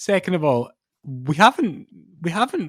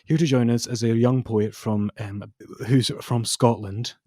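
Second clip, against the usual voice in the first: poetry host; 4 semitones lower, 4 dB quieter than usual. Pretend. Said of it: "session of Poets Corner".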